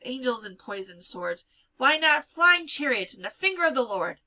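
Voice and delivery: sharp, loud scolding; scolding a foolish girl, loudly; scornful scolding. Acted. Gittel scolding Fega.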